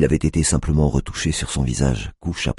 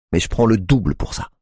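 Tiffany's voice; 7 semitones higher than usual. A narrator's reading. Tiffany haggles.

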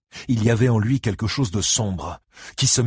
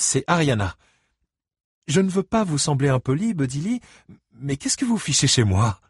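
higher-voiced woman, politely questioning; puzzled homeowner; 6 semitones higher than usual. A narrator's reading. Homeowner questioning an unexpected visitor, puzzled. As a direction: lift the voice, polite but puzzled.

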